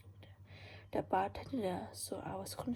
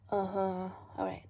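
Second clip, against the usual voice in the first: put-on drunk voice; 3 dB louder than usual. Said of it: "I said in a drunk voice".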